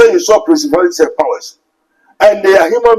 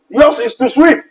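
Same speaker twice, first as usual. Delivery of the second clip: preacher's pointed emphasis; emphatic rise; 10 semitones higher than usual. Acted. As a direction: sweep lifted much higher with a rising end. Sweep repeated, much higher.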